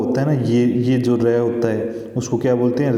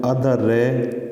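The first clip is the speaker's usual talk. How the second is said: breaking the word apart; much slower than usual. Shown as a demonstration. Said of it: "word है वो तोड़ के दिखाया".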